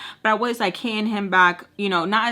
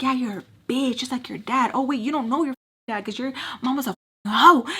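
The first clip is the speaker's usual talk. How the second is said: higher-pitched goading taunt; mouthy fight comeback, pitched up; retold insult; 4 semitones higher, faster than usual.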